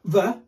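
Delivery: "the" as a dull vuh; wrong syllable. Shown as a demonstration. Showing the syllable to avoid, vuh on the. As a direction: reduce "the" to a bare vuh sound. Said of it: "It's not the".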